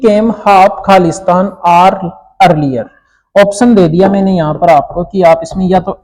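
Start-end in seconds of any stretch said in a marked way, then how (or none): 0.0-2.8 slow dictation. Shown as a demonstration. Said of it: "ठीक है, इस प्रकार".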